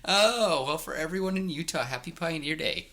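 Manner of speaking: put-on half-hearted accent greeting for Utah; bad put-on accent. Host greeting Utah listeners in a bad put-on accent. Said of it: "I usually can do a better accent".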